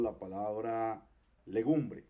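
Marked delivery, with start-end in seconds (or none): 1.5-2.0 legumbre with a very brief first E; very short E. Shown as a demonstration. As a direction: pass quickly over the "le" in "legumbre". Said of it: "que es bien corta".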